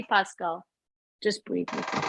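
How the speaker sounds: soft, soothing instruction; calming. Retold or imitated. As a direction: imitate a sister gently settling someone's panic. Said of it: "Everything about her is just very calming".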